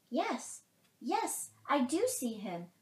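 high, excited squirrel voice; chattering squirrel. A narrator's reading. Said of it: "chattered the squirrel".

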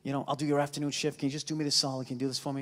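soft, low wheedling plea; pleading. Retold or imitated. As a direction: beg sweetly for a favor. Comic retells his own pleading.

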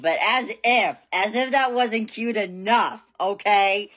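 excited. Real, not acted. Playful self-hype before reveal.

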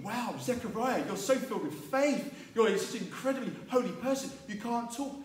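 high, awed praise; admiring crowd. Retold or imitated. Crowd admires silent Zechariah, high mock awe. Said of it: "everyone's thinking".

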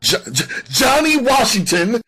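high, loud stutter on the name; fearful stammer. A narrator's reading. Suspect barely able to say the name, fearful stammer. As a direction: stumble on the first sound, frightened and rising. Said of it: "He could barely pronounce the name".

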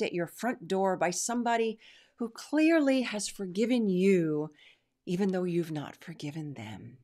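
dripping mock sweetness, fake innocent; sarcastic. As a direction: sneer it as if it's all so innocent. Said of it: "the seeping sarcasm in my tone".

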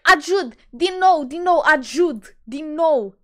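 a hint of a dazed stoner; stoned guy. Imitating the stoned man asking about Ajud, loud. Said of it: "Și ne întreabă".

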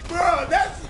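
high, laughing disbelief; real laughter at a one-line greeting. Real, not acted. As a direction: crack up at how little they said.

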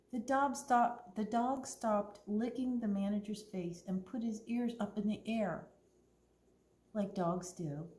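clear, lively storytime reading voice; story narration. A narrator's reading. Librarian reads Winn-Dixie to the kids, storytelling. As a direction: read the story to the children.

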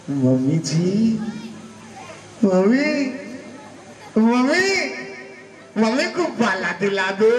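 put-on high, pleading little child's voice; childish begging whine; whiny child. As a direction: wheedle like a small kid begging for a balloon. Child begging mother, wheedling.

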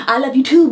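"too" said as "tube", ending on B; mimicked stray B. Partner points out the botched reply, stray B on "too". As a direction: imitate the slip, adding B after "too". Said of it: "it's the B".

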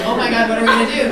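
aghast. Retold or imitated. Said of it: "like, aghast".

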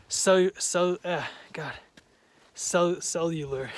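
stumbling over words from cold lips; too cold to get the word out; shivering. Real, not acted. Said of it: "I can't talk. I'm, my lips are so cold".

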